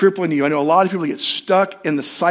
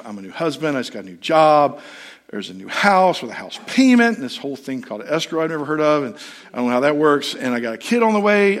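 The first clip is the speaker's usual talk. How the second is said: complaining to God. Retold or imitated. Pastor retelling how he complained to God, mild grumbling. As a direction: pour out the worries like a grumbling new husband. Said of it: "I was complaining to God".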